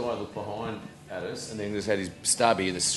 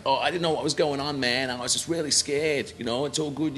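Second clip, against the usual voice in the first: mock anxious excuse; 3 semitones higher than usual. A singer's man excusing himself to the storyteller, mock anxious. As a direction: raise the pitch, pleading a little. Acting out the scared man's reply.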